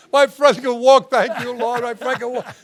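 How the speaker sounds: high, hammed-up revival cry; mock faith-healer praise fading off; yelling. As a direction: shout praise like a tent preacher. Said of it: "He starts yelling".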